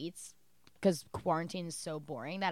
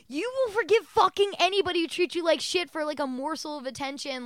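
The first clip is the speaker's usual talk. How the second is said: higher, louder outburst imitating an exasperated friend; mock berating; 8 semitones higher, 5 dB louder than usual. Jen to forgiving Judy, mock scolding. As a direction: berate her in a raised, pitched-up mock rant.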